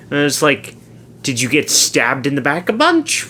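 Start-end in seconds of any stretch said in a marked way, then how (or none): 1.2-3.3 retold baffled question, rising at the end; puzzled questioning. Confused coworker asking about a stabbing, puzzled questioning. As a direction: push the question up in mock earnest. Retold mishearing of seizure as Caesar.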